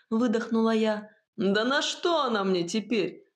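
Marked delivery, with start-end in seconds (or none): 1.4-3.2 contemptuous snort. A narrator's reading. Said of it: "презрительно фыркнул Чернослав".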